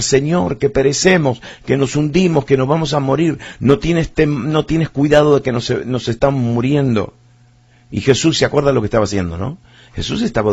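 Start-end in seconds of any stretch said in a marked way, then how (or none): 0.0-7.1 frightened cry. Acted. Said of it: "empezaron a gritar".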